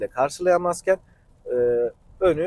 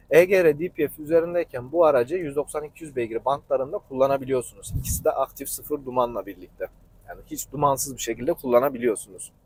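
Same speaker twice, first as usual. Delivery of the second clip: husky, hoarse from the flu; 2 semitones lower than usual. Real, not acted. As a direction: talk through a hoarse sick throat. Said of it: "Sesim biraz boğuk ve kötü".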